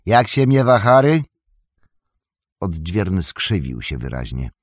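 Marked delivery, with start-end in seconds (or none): 0.1-1.2 Gandalf. Acted. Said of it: "zaśmiał się Gandalf".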